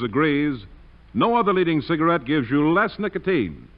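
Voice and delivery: smooth announcer pitch for cigarettes; radio ad read. Acted. Announcer pitching cigarettes to radio listeners, smooth and confident. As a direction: sell it like a 1940s announcer.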